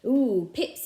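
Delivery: loud, startled ooh; surprised. A narrator's reading. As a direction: caught out by a pip. Raj finds pips while chewing.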